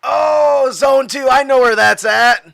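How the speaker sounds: loud, high stoner realization. Acted. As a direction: suddenly get it, as a loud stoner. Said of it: "I gotta put on my stoner voice".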